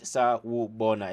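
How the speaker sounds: "sawubona" as sa-wu-bo-na, syllables clearly parted; correct accent. Shown as a demonstration. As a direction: say "sawubona" syllable by syllable with falling end. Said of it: "have the correct accent".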